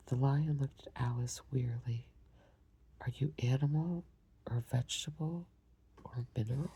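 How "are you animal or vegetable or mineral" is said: yawning. Acted. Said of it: "yawning at every other word".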